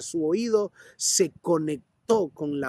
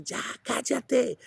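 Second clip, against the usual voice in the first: slow, higher mock scolding; dismissive hush; 7 semitones higher, slower than usual. Crowd member silencing the blind man, slow mock scold. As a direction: shush him down from above. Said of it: "Habrá gente que va a decir".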